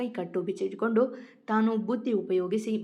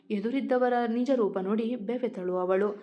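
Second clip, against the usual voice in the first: plain reading voice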